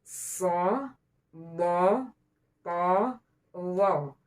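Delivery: "So, do, to, lo" each set apart and thickened; full-mouthed, emphatic "So, do, to, lo"; thick, heavy letters. Shown as a demonstration. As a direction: lift the middle of the tongue for a heavy "So, do, to, lo". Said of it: "tengah-tengah lidah itu diangkat".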